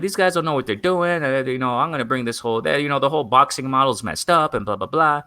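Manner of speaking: rough mock English accent, starting high; half-hearted imitation of an English promoter's accent; bad English accent. Promoter dismissing his rivals, in a poorly imitated English accent. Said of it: "I can't do the English accent".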